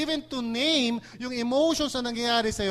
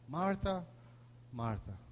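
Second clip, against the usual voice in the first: soft sighing call; 5 semitones lower, 10 dB quieter, slower than usual. Shown as a demonstration. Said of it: "Hindi natin alam kung anong tono noon".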